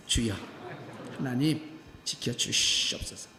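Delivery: a low, whispered plea to God; whispered prayer. Retold or imitated. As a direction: pray under your breath before ringing. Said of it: "순교 기도를 했습니다".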